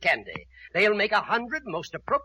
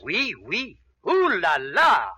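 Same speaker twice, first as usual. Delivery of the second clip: put-on French accent; 5 dB louder, slower than usual. Hinting at risqué French postcards.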